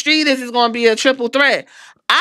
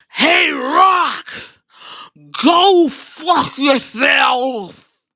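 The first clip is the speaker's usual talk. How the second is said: mock insult; much slower than usual. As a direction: spit it slowly at him. Quoting insult to the Rock.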